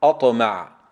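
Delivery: أطمع with a short bounce on ط, no added vowel; teacher's careful recitation of أطمع; correct qalqala. Shown as a demonstration. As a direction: model أطمع with a firm emphatic t. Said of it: "تقرأ هكذا".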